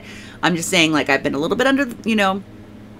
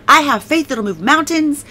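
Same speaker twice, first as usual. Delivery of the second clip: higher-pitched declaration of faith; declaring; 6 semitones higher than usual. Retold or imitated. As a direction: retell a firm decree over your life. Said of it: "I would decree over my life".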